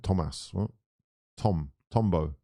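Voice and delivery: put-on low Spanish-accented name. Streamer repeating the player's name to himself, Spanish accent. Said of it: "saying it in a Spanish accent".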